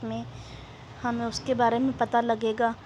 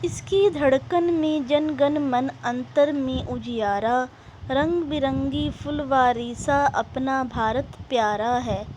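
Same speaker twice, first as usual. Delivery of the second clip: poem recitation. Acted. Teacher reciting a patriotic poem to students, measured recitation.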